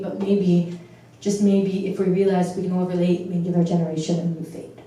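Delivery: rhythmic spoken-word recital, landing on the rhymes; measured verse with pauses between stanzas; slam poetry. Acted. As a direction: recite it as an earnest slam poem. Performs own slam poem.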